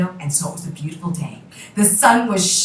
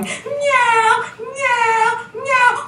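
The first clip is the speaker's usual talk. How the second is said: high, loud yowling meows; high drawn-out cat cry; 3 dB louder, much slower than usual. Acted. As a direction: yowl like a menacing cat. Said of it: "kept coming towards them going".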